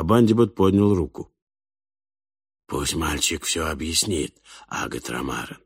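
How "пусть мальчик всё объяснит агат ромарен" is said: low, very soft, controlled voice; whispered. A narrator's reading. Abundibot hushes Falk so the boy can explain, whispering. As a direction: drop right down to a murmur. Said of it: "прошептал он".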